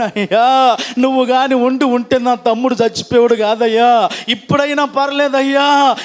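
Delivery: a touch of weeping in a retold appeal; imitated tearful plea. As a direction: plead like a bereaved sister, mildly tearful. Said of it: "ఈ మాటలు ఏడుస్తూ అంటుంటే".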